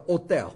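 hotel with a silent H, otel; hotel said o-tel, no H sound; French hotel. Shown as a demonstration. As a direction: drop the H in hotel, French style. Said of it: "他不读这个音的".

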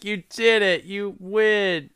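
high, sing-song game show host; hammed-up congratulations; mock cheery host. Mocking the radio host.

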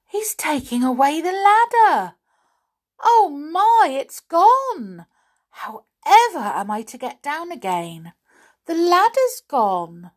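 high, loud alarmed doll voice; panicked. A narrator's reading. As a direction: cry out as the ladder vanishes. Doll stranded up tree.

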